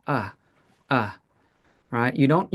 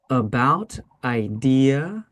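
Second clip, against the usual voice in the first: each word said on its own with a short pause after; slow model words; 4 semitones lower, slower than usual. Shown as a demonstration. Teacher giving words for the class to repeat, slow. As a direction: say each word and let it sit. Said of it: "let's try this nice and slow".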